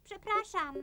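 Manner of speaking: small, soft apologetic voice; softly contrite; sheepish apology. Acted. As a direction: apologise softly after a telling-off. Child apologises after being scolded.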